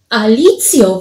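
exclaiming. Acted. Paweł finally cries out to Alicja, exclaiming. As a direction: call out her name in mild alarm. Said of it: "wykrzyknął Paweł wreszcie".

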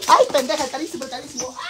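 high, loud startled yelp; real panic over the expensive phone; alarmed cry. Real, not acted.

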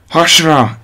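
sharp high shout; shouted warning. A narrator's reading. Voss warns the others to drop, urgent high shout. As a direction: yell it as the blast hits. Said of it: "kiáltotta Voss".

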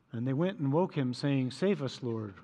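a dry, by-the-book recitation; flat Mass reading. Shown as a demonstration. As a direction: read it softly, like a formal liturgy reading. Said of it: "this is how we usually read it at Mass".

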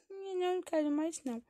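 put-on high-pitched childish refusal; whining child. Child gives crying baby back to mother, high and whiny. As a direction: refuse like a fussy little kid.

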